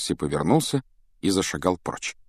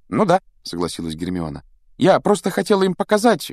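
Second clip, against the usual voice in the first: put-on girl voice; 10 semitones higher, 3 dB louder than usual. Hermione voiced by narrator.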